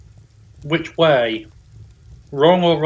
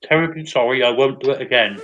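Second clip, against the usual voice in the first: talking through a mouthful of ice cream; mock-apologetic with a mouth full; 5 dB louder than usual. Real, not acted. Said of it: "speaking with my mouth full of ice cream".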